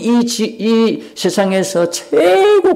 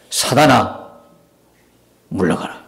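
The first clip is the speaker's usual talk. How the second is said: stern rebuke; 9 semitones lower, 4 dB quieter than usual. Acted. Jesus rebuking Peter.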